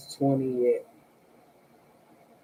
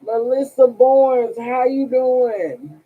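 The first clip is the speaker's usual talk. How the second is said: mock phone greeting; 7 semitones higher, 6 dB louder, slower than usual.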